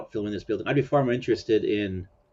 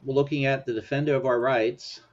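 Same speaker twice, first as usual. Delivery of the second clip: sarcastic; 4 semitones higher than usual. Real, not acted. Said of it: "he said sarcastically".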